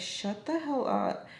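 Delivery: slow, exasperated comeback without shouting; all annoyed. Retold or imitated. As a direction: imitate an annoyed cousin, stretching the words. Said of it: "Like, all annoyed, right?".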